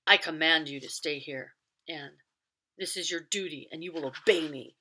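loud, hard master's order; stern command. Acted. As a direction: force her to obey. Lockton orders Anne.

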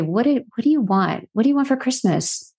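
bright, eager asking, pitch rising toward Christmas; lightly imitating a husband's joy; joyful question. Husband joyfully asks his wife about Christmas, eager mock cheer. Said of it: "He would say that with such joy".

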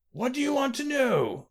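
high, shrill-pitched terrified scream. A narrator's reading. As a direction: cry it out in panic. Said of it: "Lord Errol screamed".

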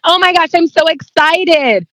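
high, slow gushing delight; mock excited. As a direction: play up the thrill of the news. Retelling her excited reply on phone.

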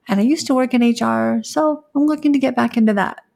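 unsure sample interview answer, pitch lifting at the close; weak, lacking confidence. Shown as a demonstration. Candidate giving a weak elevator pitch, lacking confidence. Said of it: "very weak and lacking confidence".

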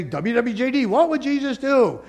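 acted-out enthusiasm for a slogan; upbeat slogan quote. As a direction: pitch it up like a catchy motto. Voicing an enthusiastic slogan user.

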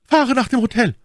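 high, loud lady's order; cold command. A narrator's reading. Milady calling to her coachman, cold. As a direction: call it out coldly, pitched right up. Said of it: "rief dem Kutscher kalt zu".

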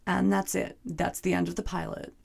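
rough gravelly smoker's voice. Real, not acted. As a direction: talk through a gravelly throat. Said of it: "I sound like a gravelly, heavy smoker".

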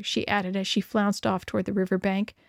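plain reading voice

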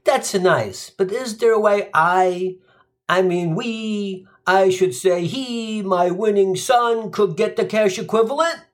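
a hint of a greedy New York dad; pushy dad. Gino's dad asks the judge for cash, fumbling. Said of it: "Gino's dad stands and says".

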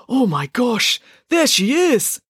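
high, thrilled exclamation; excited gasp of recognition. Acted. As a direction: blurt it out, voice leaping up. Binky suddenly spots Debbie.

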